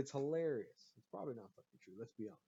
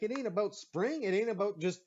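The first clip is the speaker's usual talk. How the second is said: heated retort; 4 semitones higher, 5 dB louder than usual. Retold or imitated. I'm like.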